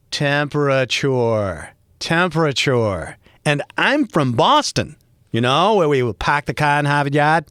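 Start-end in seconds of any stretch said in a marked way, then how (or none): 0.1-3.2 "Temperature" slowly, every syllable sounded; corrective enunciation. Shown as a demonstration. Correcting newscasters' pronunciation of temperature. 6.2-7.4 native Boston accent, dropped R's. Shown as a demonstration. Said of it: "That's how you really say it".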